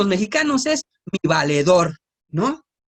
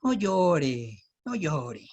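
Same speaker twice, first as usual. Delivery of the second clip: soft comforting words to a weeping person; comforting a crying woman, soft and tender; consoling someone crying; 3 semitones lower, 4 dB quieter than usual. Retold or imitated. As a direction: hush them gently, a touch softer. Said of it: "alguien que llega y dice".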